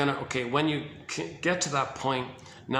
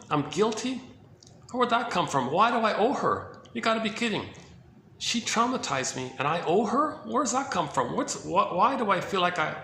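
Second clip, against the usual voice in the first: put-on indignant baby; 4 semitones higher than usual. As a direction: protest like a wronged child who can't believe it. Baby voiced, outraged at owing mother.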